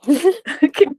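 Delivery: loud bright laugh; a real laugh breaking out; burst of laughter. Real, not acted. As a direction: laugh out at herself. Laughing at own story.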